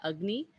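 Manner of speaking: Agni opening on "uh", rising at the end; short A. Shown as a demonstration. Teacher repeating the term for students, short uh-like A. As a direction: sound the A of Agni as uh. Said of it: "pronounced like a, uh, uh sound".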